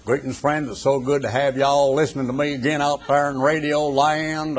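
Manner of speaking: hammed-up Southern radio preacher accent; mock Southern accent, folksy radio evangelist; broad Southern accent. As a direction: put on a broad, drawling Southern preacher's greeting. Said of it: "with a broad Southern accent".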